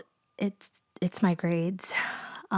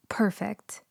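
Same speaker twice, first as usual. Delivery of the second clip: whisper. Acted. Student gets her way.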